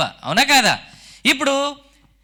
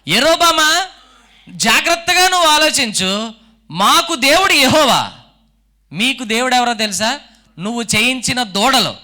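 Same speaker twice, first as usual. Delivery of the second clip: king's stern challenge. Retold or imitated. Preacher voicing Abijah warning Jeroboam about his golden calves, stern and raised. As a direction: warn the rival king sternly, building then easing.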